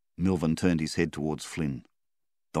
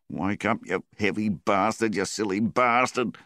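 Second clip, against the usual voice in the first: pleading, rising higher and louder; desperate call; 5 semitones higher, 3 dB louder than usual. Acted. Flynn begging his drowned mate Milvan to wake up, desperate rising call. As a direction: shout at him to wake up, voice climbing.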